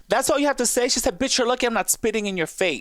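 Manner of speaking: mock fury. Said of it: "She's like".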